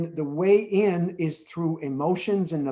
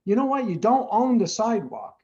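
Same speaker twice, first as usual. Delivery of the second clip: higher, sharp defensive comeback; defensive retort; 5 semitones higher than usual. Pretend. Inner defensive voice answering the rude old lady, higher retort. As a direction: snap back at the lady in his head. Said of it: "my defensive mechanism wanted to go".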